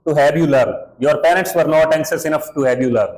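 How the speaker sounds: teacher reading the quote slowly. Retold or imitated. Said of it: "कहा था ना उन्होंने".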